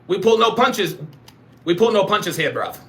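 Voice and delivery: emphatic mock British slang; British accent. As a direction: declare it like a British street tough. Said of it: "You talking in a British accent".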